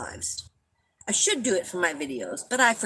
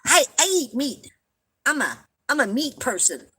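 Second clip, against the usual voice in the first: mock announcement; 4 semitones higher than usual. Mocking how vegetarians announce diets, as a proud meat-eater's announcement. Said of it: "never walked up to anybody and said".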